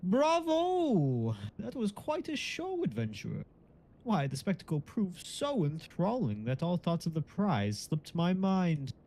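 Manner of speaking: lightly voiced game character; hint of an unearthly narrator; disembodied voice. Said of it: "I can be disembodied voice".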